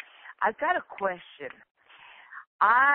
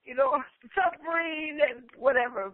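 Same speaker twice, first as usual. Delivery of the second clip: emotional, near tears; 4 semitones higher than usual. Real, not acted. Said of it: "Sorry, but I'm so emotional".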